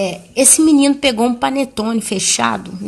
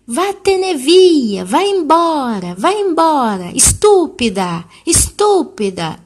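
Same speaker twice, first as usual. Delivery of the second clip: slow, higher mock child telling her to go away; angry child voice, higher and drawn out; 6 semitones higher, slower than usual. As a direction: draw out the words like a sulky little boy. Angry child ordering aunt away.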